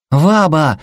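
put-on small boy yells high and bright; excited child's shout. A narrator's reading. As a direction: call out to grandma like a kid. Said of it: "закричал Сэл".

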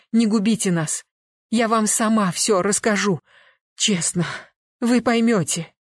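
high, loud, frantic begging; desperate pleading. A narrator's reading. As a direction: beg him desperately to spare them. Wife begging detective not to call police.

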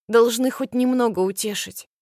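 ordinary delivery

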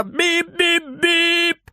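high, slow sung beeps of a horn; playful high beep-beep-beep; bus horn beeps. Acted. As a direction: honk three times like a bus. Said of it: "сигналит три раза".

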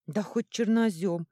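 loud, slow brush-off; dismissive. A narrator's reading. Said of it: "отмахнулся тот". (пренебрежительно, громко отмахиваясь)

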